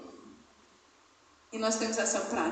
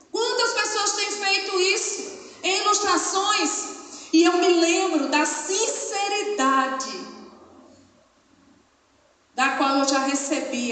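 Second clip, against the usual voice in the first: higher, louder, slow pulpit call; fervent preaching; 8 semitones higher, 6 dB louder, slower than usual. Acted. Pastor challenges the congregation, fervent. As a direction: lean into it from the pulpit.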